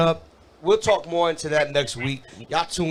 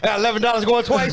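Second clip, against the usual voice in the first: fast, higher auctioneer patter; 4 semitones higher, faster than usual. Pretend. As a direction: rattle off the bid like an auction. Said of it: "I'm like an auctioneer".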